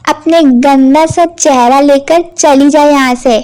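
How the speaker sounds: loud contemptuous stepmother telling off; scornful scolding. Acted. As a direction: sneer at her and send her away. Stepmother scolding Sheela harshly. (तिरस्कार भरी डांट)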